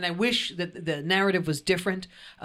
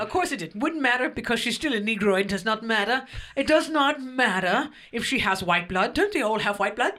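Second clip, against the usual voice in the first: hammed-up British accent, mostly higher; 4 semitones higher than usual. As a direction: play an indignant British royal. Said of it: "You do it in British accent".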